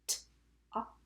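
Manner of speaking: "t, op" said sound by sound with gaps. Shown as a demonstration. Teacher tapping the second syllable, sounded out. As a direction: isolate each sound in "t, op". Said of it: "I'm gonna tap it with you".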